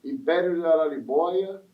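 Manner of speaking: measured promotional invitation; event announcement. Real, not acted. Host inviting listeners to the samba school's feijoada, announcer style. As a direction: announce the feast to everyone listening.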